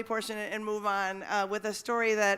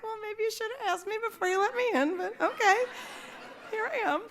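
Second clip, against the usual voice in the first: sarcastic; 12 semitones higher than usual. Retold or imitated. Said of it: "And I was like".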